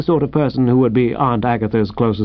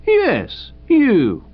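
policeman insisting; 11 semitones higher than usual. Acted.

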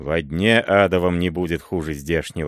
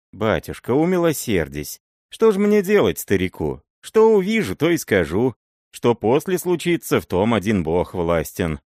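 pleading for mercy. Acted. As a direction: beg for mercy, voice jumping up.

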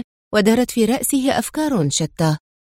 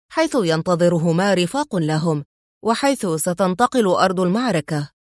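sly smile; 2 semitones lower than usual. Acted. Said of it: "وهو يبتسم بخبث".

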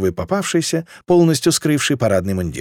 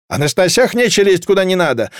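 higher, scolding comeback; indignant retort; 5 semitones higher than usual. A narrator's reading. Townsperson answering a pregnant woman in the crush, indignant. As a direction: scold right back.

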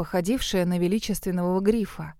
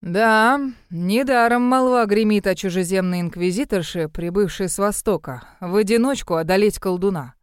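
lightly voiced, self-assured merchant lord; a hint of a grudgingly impressed villain; scheming shipowner. Villain shipowner musing aloud.

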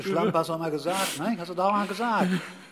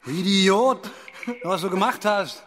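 angry rebuke; 2 semitones higher, slower than usual. Acted. Rebuking after being hurt.

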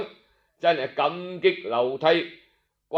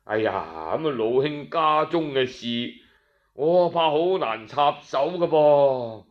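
feigning ignorance; 4 semitones lower than usual. Acted. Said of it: "咋咋地地乜都唔知咁讲".

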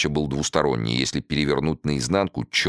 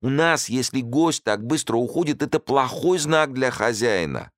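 pleading host; 10 semitones higher than usual. A narrator's reading. Host voiced.

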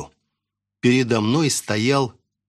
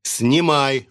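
barked order; 3 semitones higher, 3 dB louder than usual. Acted. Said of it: "рявкнул я".

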